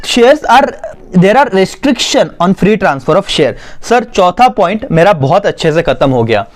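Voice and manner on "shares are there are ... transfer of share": slow, measured reading for note-takers; dictation reading. Acted. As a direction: read out the definition slowly, phrase by phrase. Reads notes aloud for dictation. (धीरे-धीरे notes लिखवाते हुए पढ़ना)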